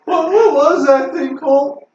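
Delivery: high, slow, shaken voice. Acted.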